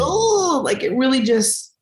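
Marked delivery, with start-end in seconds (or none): 0.0-0.6 high, moved little "Oh"; heart-touched "Oh" on a high lift. Retold or imitated. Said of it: "And I was like".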